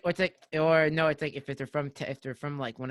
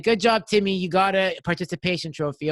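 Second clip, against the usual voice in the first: mock praise; 3 semitones higher than usual. Mocking praise to attention-seeking kid province.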